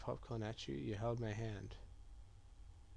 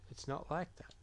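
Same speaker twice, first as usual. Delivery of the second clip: whisper; 4 semitones higher than usual. Acted. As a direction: breathe the words, no voice. Unvoiced whisper in an argument.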